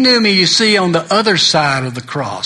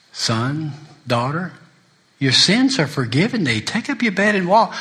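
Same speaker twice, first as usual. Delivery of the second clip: preaching it out; 2 semitones higher than usual. Acted. Preacher declaring forgiveness to the congregation, rising to a call. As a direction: proclaim the forgiveness to the room.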